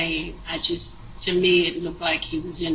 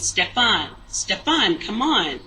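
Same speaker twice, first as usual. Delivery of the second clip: imitating an insistent call to someone; aggressive calling out; 2 semitones higher than usual. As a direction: call him over, mildly forceful. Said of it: "she was real aggressive with it".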